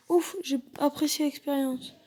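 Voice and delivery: breathless relieved whisper. Acted. Relief after danger passes.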